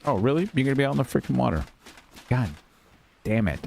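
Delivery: high-pitched exasperated outburst; exasperated gamer griping, pitch jumping up; real frustration. Real, not acted. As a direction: grumble at the game in disbelief. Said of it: "I'm really getting frustrated".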